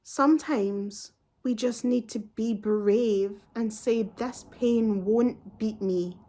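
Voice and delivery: slow mock-patronizing quote; slowly imitating a patronizing doctor. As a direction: drag it out like a condescending pep talk. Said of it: "and I quote".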